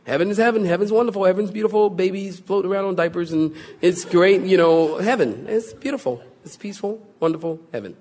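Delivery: lightly mocking, fast, sing-song take on easy heaven; mocking dreamy. Preacher mocks people who think everyone goes to heaven. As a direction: parody the naive everyone-goes-to-heaven view. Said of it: "They did a movie".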